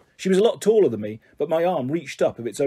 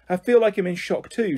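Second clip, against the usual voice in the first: a hint of a rattled driver, higher-pitched; lightly voiced bus driver; 5 semitones higher than usual. Bus driver explains himself to onlookers, mildly rattled. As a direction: lightly play the driver as shocked.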